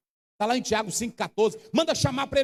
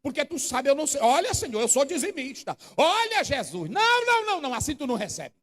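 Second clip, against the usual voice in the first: mock bargaining. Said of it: "aí ele diz".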